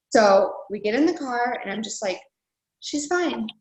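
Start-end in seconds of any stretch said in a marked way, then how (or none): 2.8-3.5 forced calm. Retold or imitated. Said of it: "I'm saying it out loud".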